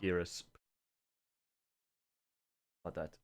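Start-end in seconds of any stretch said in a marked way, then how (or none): 0.0-0.4 shaky attempt at a South African accent. Shown as a demonstration. Showing co-caster the meme accent, rough South African accent. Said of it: "My South African accent".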